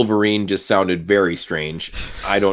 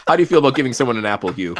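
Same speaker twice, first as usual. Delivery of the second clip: mock casting director; 3 semitones higher, much faster than usual. Acting out casting audition.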